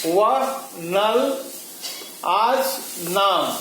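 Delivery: वह, नल, आज, नाम each said singly with stress; measured word list, each syllable stressed; stressed one-syllable words. Shown as a demonstration. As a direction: give वह, नल, आज, नाम one firm beat each. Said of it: "वह पर बलाघात है".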